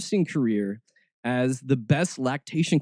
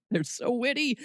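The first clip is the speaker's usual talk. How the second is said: sarcastic; 9 semitones higher, 5 dB quieter than usual. Real, not acted. Sarcastic laugh at joke.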